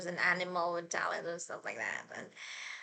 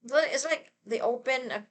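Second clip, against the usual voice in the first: fangirl squealing; 4 semitones higher, 7 dB louder than usual. Real, not acted. Gushing about casting.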